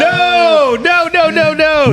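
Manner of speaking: high, shocked repeated no. Real, not acted. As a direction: recoil in disbelief. Shocked at the term's meaning.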